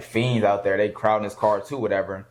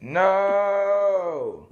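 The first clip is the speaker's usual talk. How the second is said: higher, slow shouted panic, voice cracking like a cry; mock panicked yell; 8 semitones higher than usual. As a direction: imitate a frantic man screaming over a car crash. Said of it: "He sounded like a rapper".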